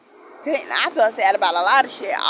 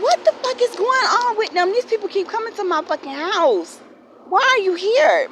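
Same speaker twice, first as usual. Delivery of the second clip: shocked outrage; 8 semitones higher than usual. Retold or imitated. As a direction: demand answers, pitched way up. Retelling police at her house.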